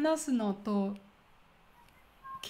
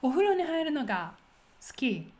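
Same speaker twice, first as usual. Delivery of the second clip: お風呂に入るのが quick and lifted, pause, then 好き; focus on 好き; faster than usual. Shown as a demonstration. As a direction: hold back 好き after a short pause. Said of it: "focus is rather the latter part".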